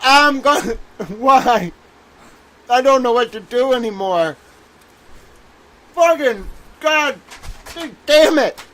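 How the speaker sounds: high, drawn-out whine of despair; mock anguished wail. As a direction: ham up the breakdown, pleading to the sky. Mock meltdown over lunch.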